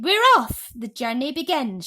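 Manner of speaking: very loud, high triumphant shout. A narrator's reading. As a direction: yell it out, we're off at last. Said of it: "shouted the centipede".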